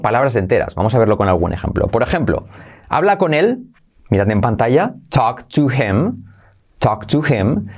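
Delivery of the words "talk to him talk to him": "talk to him" with the h of him dropped; h swallowed in "him". Shown as a demonstration. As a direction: run "talk to him" together as "talk to 'im". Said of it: "se salta la H".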